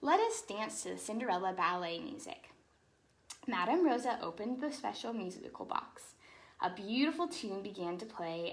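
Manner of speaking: lively storybook read-aloud; animated picture-book narration; reading to children. Acted. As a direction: read it like bedtime story time for kids.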